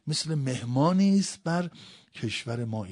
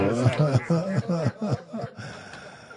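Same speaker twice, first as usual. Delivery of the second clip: high sob that fades away; wailing sob; 6 semitones higher, 5 dB louder than usual. Real, not acted. Preacher overcome at the child's martyrdom, wailing sob. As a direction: break off into a raised, trailing sob. Climax of mourning narration.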